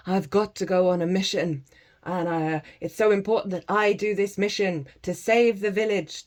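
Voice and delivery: a mildly pompous quest-bound mystic voice; lightly hammed-up grandiose pilgrim; self-important seeker. Teacher mocks the self-important seeker, lightly pompous. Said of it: "rather than".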